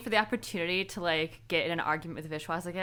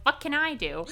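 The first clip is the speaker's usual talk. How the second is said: exasperated quote; 7 semitones higher than usual. Retold or imitated. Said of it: "just 'cause of the delivery".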